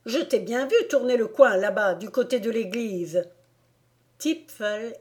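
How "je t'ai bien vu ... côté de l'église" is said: louder, still calling after him; angry neighbour hollering down the street; shouting. Acted. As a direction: scold the boy from the window. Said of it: "s'écrie-t-elle".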